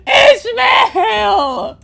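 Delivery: loud, high call across a distance; shouting a name. Real, not acted. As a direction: yell the name at full voice. Calling out again.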